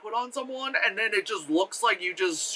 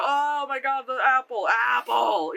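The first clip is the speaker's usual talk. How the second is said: raised, overdone cry of alarm; mock melodrama; 3 semitones higher, slower than usual. Acting out the princess falling, mock melodrama. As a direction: ham it up on each "apple".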